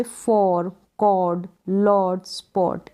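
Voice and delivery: "for, कॉर्ड, लॉर्ड, स्पॉट" slowly, with a long o; OR sound. Shown as a demonstration. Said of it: "ओ या फिर और".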